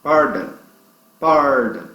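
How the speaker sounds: "pardon" punched on the first syllable, English R; stress on PAR. Shown as a demonstration. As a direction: hit the "par" in "pardon", let the end fall. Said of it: "forte é par". ("pardon" com ênfase no "par" e R inglês)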